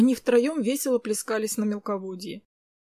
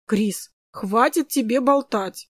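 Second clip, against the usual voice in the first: gentle interruption; 4 dB louder, slower than usual. Acted. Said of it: "мягко прервал её брат".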